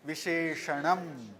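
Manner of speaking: وشیشنم said slowly and softly, syllable by syllable; slow Sanskrit word. Shown as a demonstration. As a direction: lay out وشیشنم slowly so students can copy it. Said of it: "صفت یعنی وشیشنم". (وشیشنم آرام و هجا به هجا)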